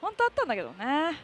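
laughing it off ruefully. Real, not acted. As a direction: say it through a wry laugh.

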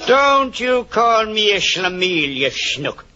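high, slow indignant retort. Acted.

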